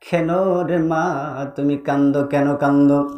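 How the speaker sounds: low, tender melodic question; lightly acted prophet consoling a mother; gentle questioning.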